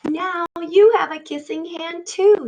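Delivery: put-on happy child voice; proud child. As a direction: beam with pride. Proud child returns the kiss.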